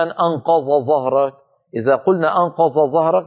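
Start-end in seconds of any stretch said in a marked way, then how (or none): 0.0-1.3 أنقض ظهرك with ض merged into ظ, said like two ظ; mispronounced example; wrong merged form. Shown as a demonstration. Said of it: "فلا يقول مثلًا". 2.4-3.3 أنقض ظهرك with the ض swallowed into ظ; wrong merged sounds; merged zha. Shown as a demonstration. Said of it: "صار كأنهما ظاءين".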